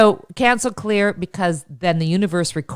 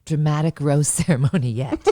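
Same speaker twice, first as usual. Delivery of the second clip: low, dramatic show-opening announcement; hammed-up promo read; mock TV promo announcer; 4 semitones lower than usual. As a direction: announce it like a reality-show teaser.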